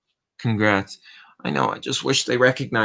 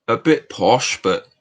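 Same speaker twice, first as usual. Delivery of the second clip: posh British. Pretend. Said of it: "And then you got British me".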